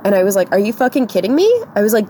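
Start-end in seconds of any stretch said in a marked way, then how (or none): 0.5-1.5 rising, incredulous mock outrage; retold indignant disbelief. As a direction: say it as an appalled question, pitched up. Retold indignant reaction to the man.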